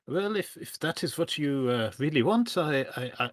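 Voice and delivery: a hint of a bad French accent, reluctant; frowning innkeeper, bad French accent. Innkeeper to guest, reluctant, lightly mock French accent. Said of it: "he frowns briefly".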